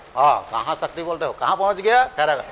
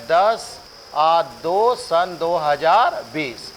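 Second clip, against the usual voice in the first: slow dictation; much slower than usual. Shown as a demonstration. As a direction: say "ये है दस, दो सन दो हज़ार बीस" very slowly, each number spaced out so students can write it. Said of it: "रटवाई पड़ेगा". (बहुत धीरे, रटवाने वाले अंदाज़ में)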